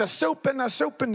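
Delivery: put-on likable old-voiced cadence. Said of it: "they sound like Larry David".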